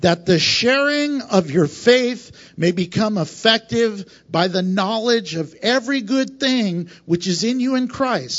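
slow, deliberate scripture reading; measured, careful reading of the verse; read slowly. Shown as a demonstration. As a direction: lay each word out slowly for the listeners. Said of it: "I'm gonna read it slowly".

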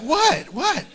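high, insistent questioning; acted eager prying. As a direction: pounce on it, desperate to know. Acting the eager, frustrated listener.

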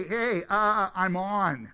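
loud mock announcement; light announcing itself. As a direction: bellow it like a lamp showing off. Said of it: "Did the lights have to say".

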